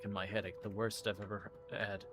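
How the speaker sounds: normal talking voice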